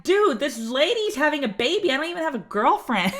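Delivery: amused incredulous retelling; laughing disbelief. Retold or imitated. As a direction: tell it half-laughing in disbelief. Guy's incredulous retold reaction.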